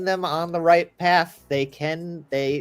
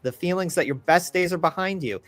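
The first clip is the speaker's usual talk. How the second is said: solemn card reading narration; dramatic narration. Acted. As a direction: read it like a grim fortune.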